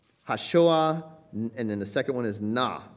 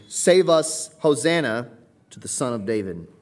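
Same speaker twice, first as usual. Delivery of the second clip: crying out; 3 semitones higher, 8 dB louder than usual. Retold or imitated. Crowd hailing the Son of David, loud cry. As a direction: shout it like the crowd. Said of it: "with a supplementary".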